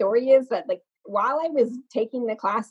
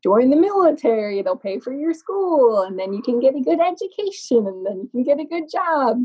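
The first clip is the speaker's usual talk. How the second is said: family advice voice; 5 semitones higher than usual. Retold or imitated. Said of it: "what our family tells us".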